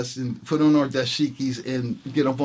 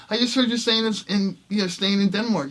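retold, beside himself; 7 semitones higher than usual. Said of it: "beside himself".

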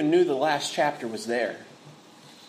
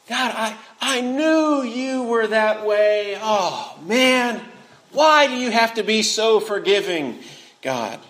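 sulky prayer. Retold or imitated. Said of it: "Can you imagine Jonah praying like that?".

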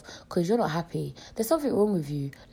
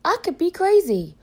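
emphatic; 9 semitones higher, 6 dB louder than usual. Real, not acted. Warning about strangers.

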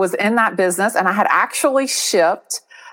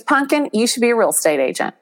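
encouraging mom; 5 semitones higher than usual. Retold or imitated. Voices her mom advising her.

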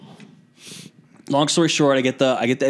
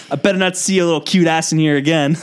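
Southern nurse's teasing warning; imitated sassy Southern send-off; southern accent; 3 semitones higher than usual. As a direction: warn him with a flirty Southern twang. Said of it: "southern accent".

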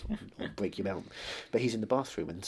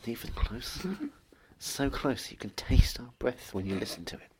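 right in your ear; 2 semitones higher than usual. Pretend. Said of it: "How close?".

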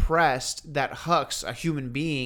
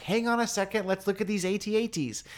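acted amazement; 6 semitones higher than usual. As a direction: voice lifted, as if pausing to marvel. Acting out wish to stop.

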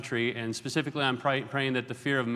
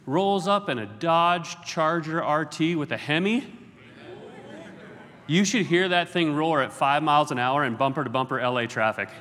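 excited car brag; 2 semitones higher than usual. Real, not acted.

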